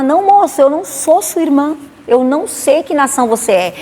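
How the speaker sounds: flustered protest. Retold or imitated. Protesting to the hugging man.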